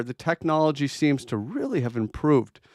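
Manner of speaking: dry sarcastic praise. Acted. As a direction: say it with mock admiration. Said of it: "I'm being sarcastic".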